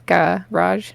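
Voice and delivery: "garage" slowly split, open "gah" first vowel; careful, questioning "garage" in two parts; A in first syllable. Shown as a demonstration. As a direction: sound out "garage" as gah-razh. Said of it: "g, ... the A".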